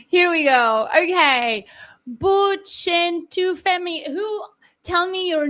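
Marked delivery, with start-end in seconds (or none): 0.1-0.9 laughing relief. Real, not acted.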